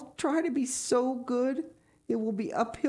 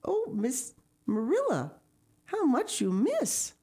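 put-on high, slow, drawn-out child's lament; amazed pity; 10 semitones higher than usual. A narrator's reading. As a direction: marvel slowly at all that is missed. Anne amazed at Marilla's lack of imagination.

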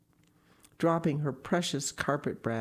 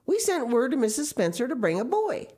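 firm, higher and louder; stern Marilla; 11 semitones higher, 5 dB louder, faster than usual. A narrator's reading. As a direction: insist on what was ordered. Marilla insists on a boy.

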